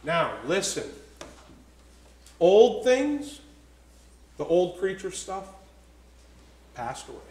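deliberate, low reading with long pauses; measured pulpit reading; slow scripture reading. Real, not acted. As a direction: read the verse word by word, weighing each. Reads scripture slowly, with emphasis.

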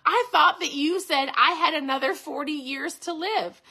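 a touch of indignant protest; mildly demanding. A narrator's reading. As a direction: demand an explanation, lightly acted. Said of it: "she demanded".

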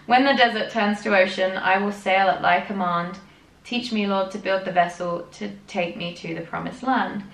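poem read with solemn earnest lilt; earnest recital of a devotional poem; reading a poem aloud. Acted. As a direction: read it like a hymn verse. Reads the poem on.

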